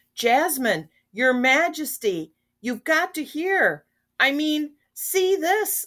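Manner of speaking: very high shout, climbing upward in pitch. Aladdin flies in on a magic carpet to Jasmine and the Sultan, shouting. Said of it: "Aladdin shouted".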